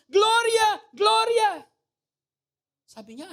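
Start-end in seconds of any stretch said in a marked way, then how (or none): 0.1-1.6 high, loud yelling of a name; patient screaming a name. Retold or imitated. Patient screaming a lost love's name. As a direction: call out the name like a madman. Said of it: "Tapos sumisigaw siya".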